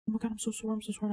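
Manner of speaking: retold frantic apology. Retold apology to crying girl.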